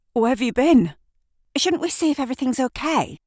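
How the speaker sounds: high, urgent questions; frightened and pressing for answers; alarmed. Acted. Kat blurting at Shirley after the attack, alarmed.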